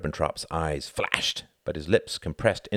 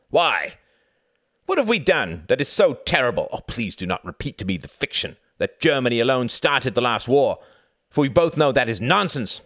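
higher, clipped-free insistent diplomat pleading; German envoy voice; 8 semitones higher, 6 dB louder than usual. A narrator's reading. Envoy courting Churchill, higher and louder persuasion. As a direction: press the offer as a smooth German envoy. Ribbentrop argues.

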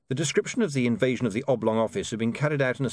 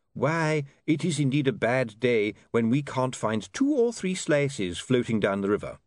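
put-on genial old vagrant; airy, pleased-with-himself host; duckman voice; 4 semitones higher than usual. Duckman character speaking.

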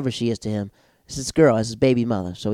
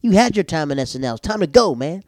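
annoyed inner voice; 10 semitones higher, 5 dB louder than usual. Retold or imitated. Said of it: "I'm like".

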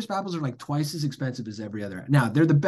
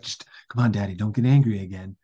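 louder mock pleading, imitating a kid; pleading child; 5 dB louder than usual. Son begging his angry dad, mock pleading. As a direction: beg dad to settle down. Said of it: "trying to calm me down".

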